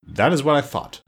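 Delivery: mildly satisfied calm. A narrator's reading. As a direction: state it unruffled. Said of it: "declared Glinda calmly".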